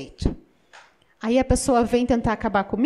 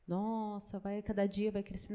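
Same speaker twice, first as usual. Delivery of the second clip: lazy sigh; 5 semitones lower, 16 dB quieter than usual. Retold or imitated. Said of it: "Você olha aquela planta".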